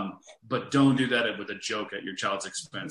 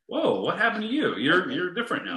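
higher-pitched mock surprise; startled parent; 6 semitones higher than usual. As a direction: act out a parent suddenly taken aback. Acting a parent's startled realization.

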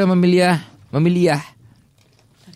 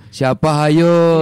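teasing; 2 semitones higher, 4 dB louder, much slower than usual. Retold or imitated. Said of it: "Jangan bilang".

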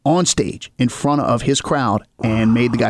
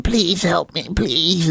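begging woman; 2 semitones higher, much slower than usual. Retold or imitated. Begging woman voiced in story.

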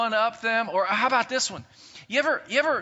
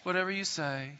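lower, softer resigned giving in; a pushover yielding with no fight; meek giving in; 3 semitones lower, 5 dB quieter than usual. Acted. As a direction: shrug it off and give up the argument. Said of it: "we're just like".

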